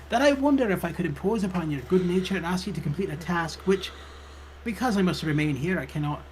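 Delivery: polite British librarian making a request. Acted. Librarian asks visitor to take on a task, British character voice. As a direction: ask a favor as the British librarian. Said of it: "she says".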